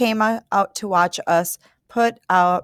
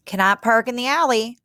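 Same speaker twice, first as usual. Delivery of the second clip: put-on a stern old neighbor's Ukrainian accent, raised higher; thick Ukrainian accent; 6 semitones higher than usual. A narrator's reading. Angry old Ukrainian neighbor scolding mother and daughter in a thick Ukrainian accent. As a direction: bark it in a thick Ukrainian accent at the new tenants. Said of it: "with a thick accent like the accent".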